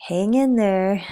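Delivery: lightly voiced cat on a motivational poster. Cat on a poster urging someone to hold on, mock pep-talk cry. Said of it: "the cat is saying".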